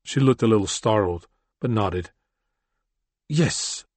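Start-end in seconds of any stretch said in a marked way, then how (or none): 3.3-3.9 a higher, firm yes; firmly. Acted. Chrysalis answering Brennan, higher and firm. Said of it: "she said firmly".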